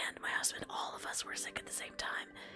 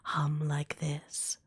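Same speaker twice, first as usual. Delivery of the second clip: put-on whispered gravelly old shopkeeper; gravelly old lady voice; 4 semitones lower, 9 dB louder, slower than usual. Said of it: "I'm using my gravelly old lady voice".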